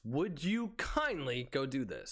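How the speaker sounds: slow, flat-toned order; matter of fact. Retold or imitated. Coworker imitating the boss giving a slow order. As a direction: spell it out slowly like a tired boss. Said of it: "he doesn't say it kindly".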